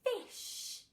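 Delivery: Fish with a long hissed shh at the end; stretched sh. Shown as a demonstration. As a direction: hold the sh in Fish. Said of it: "Which sound can you hear in fish".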